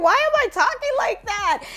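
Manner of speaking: high-pitched Valley girl self-mockery; Valley girl accent. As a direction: squeal it in mock Valley girl disbelief. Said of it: "my Valley girl accent was real".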